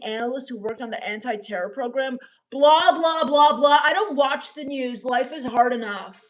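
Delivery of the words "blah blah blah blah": mocking blah blah. Real, not acted. Dismissing news with mock chatter.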